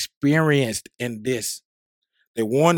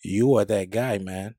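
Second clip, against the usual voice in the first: sexy voice; 4 semitones lower than usual. Acted. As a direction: purr it out low and slow. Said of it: "let me tell you right now in my sexy voice".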